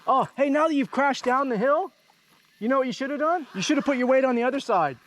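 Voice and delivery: high-pitched imitation of a know-it-all rider; Mal Dalton. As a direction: pipe up high as the unasked adviser. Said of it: "Mal Dalton experience".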